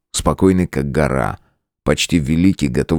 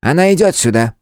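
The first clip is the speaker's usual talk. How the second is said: gruff; 11 semitones higher, 3 dB louder than usual. A narrator's reading. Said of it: "грубо сказал старейшина".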